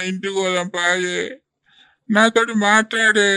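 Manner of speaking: acted, mildly tearful apology; tearful pleading. Husband begging his wife to come home, mildly tearful pleading. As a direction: plead with a touch of crying. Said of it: "నువ్వు ఏడితే నేను చూసుకుంటుండలేను".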